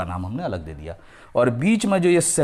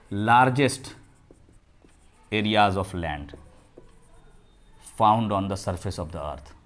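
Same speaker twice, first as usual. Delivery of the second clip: slow dictation; 3 semitones lower, much slower than usual. Shown as a demonstration. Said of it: "definition dictated".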